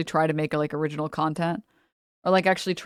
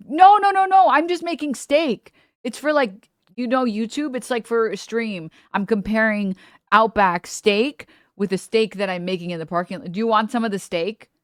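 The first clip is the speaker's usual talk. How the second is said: much higher, louder, slowed protest, imitating a flustered streamer; flustered high defense; 4 semitones higher, 4 dB louder than usual. Streamer defends herself to lady.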